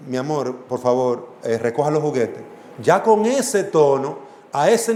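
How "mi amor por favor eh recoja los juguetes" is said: soft tone. Shown as a demonstration. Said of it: "un tono suave".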